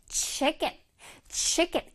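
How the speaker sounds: "chicken" with a forceful opening chi; strong first syllable. Shown as a demonstration. Teacher showing children "chicken" with a strong chi sound. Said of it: "아주 강렬하게 발음해줘야 돼".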